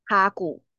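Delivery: "卡" with a little breath, "古" without; 示范单字念法. Shown as a demonstration. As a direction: model "卡古" for repeating, airy first syllable. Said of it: "跟我一起念念看". (带读“卡古”，卡稍带气)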